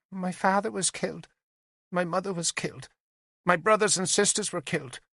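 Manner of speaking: put-on high, small child's voice, reciting; a nine-year-old saying rehearsed words; young girl. Little witness telling the lords her loss, childlike recital. Narrator voicing the child Salina.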